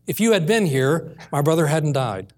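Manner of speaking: understated retelling of a grieving plea; undemanding, tearful plea. Retold or imitated. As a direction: say it without any demand, gently retold. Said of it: "did not say it with a demanding tone".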